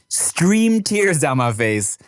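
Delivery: slow, hushed, choked-up whisper. Real, not acted. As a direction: breathe the words out slowly. Moved to tears retelling.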